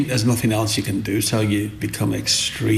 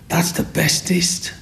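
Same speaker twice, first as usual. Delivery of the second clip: put-on high, slow, hushed child voice; little girl praising; 7 semitones higher, slower than usual. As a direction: whisper it like a wide-eyed little girl. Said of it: "And she said".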